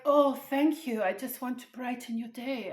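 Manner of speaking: "Oh" lifted high and bright, then easing down; chirpy service agent. Retold or imitated. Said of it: "And she's like".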